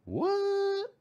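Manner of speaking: very high, startled squeak; high-pitched startled what; surprised what. Real, not acted. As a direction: jump up in disbelief. Sudden surprise at game option.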